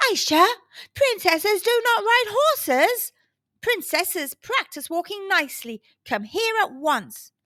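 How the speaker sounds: nanny scolding Aisha for riding a horse; booming nanny. Acted. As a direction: boom out the nanny's telling-off. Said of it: "her nanny's voice boomed".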